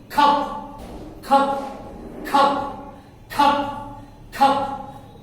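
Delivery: cup breathed out without voice; whispered cup. Shown as a demonstration. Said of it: "whispered drill of cup".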